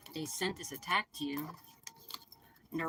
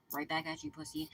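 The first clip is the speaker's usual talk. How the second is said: taunt; 11 semitones higher than usual. Real, not acted. Taunting the senders.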